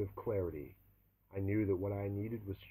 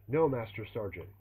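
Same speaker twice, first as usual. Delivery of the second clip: shouted reply; 2 semitones higher, 6 dB louder than usual. Acted. Recruit shouting answers at drill sergeant.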